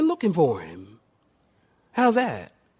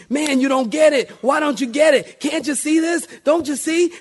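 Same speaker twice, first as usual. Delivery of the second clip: exasperated pleading; 7 semitones higher, 3 dB louder than usual. Retold or imitated. Pleading with unbelieving friends.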